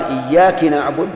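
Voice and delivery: إياك said as iyyaki with a kasra on the kaf; wrong kasra on kaf. Shown as a demonstration. A teacher showing the mistaken kasra on إياك. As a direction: end إياك with ki, not ka. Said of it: "أو يكسر كاف إياك".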